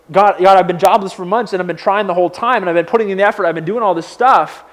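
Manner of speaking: mad at God. Acted. Jobless believer demanding help from God, exasperated. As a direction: pile up the grievances, pleading and indignant. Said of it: "I'm mad at, at God".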